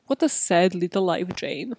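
Come Dine With Me quote. Retold or imitated. Mocking the kidnapper, quoting Come Dine With Me with a sneer. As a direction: sneer it like the reality show line. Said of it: "the reference from Come Dine With Me".

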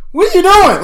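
high, loud disbelief; shocked shout. Retold or imitated. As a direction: yell it in disbelief. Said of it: "I was like".

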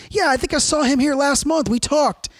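flirty beach lady. Retold or imitated. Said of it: "And she goes".

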